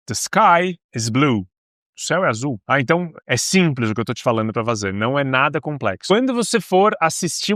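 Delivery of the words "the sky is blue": slow, carefully spaced English sentence; slow English example. Shown as a demonstration. Teacher modeling an English sentence for students, slow and clear. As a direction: model it slowly for the learner. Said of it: "Tenta usar blue numa palavra".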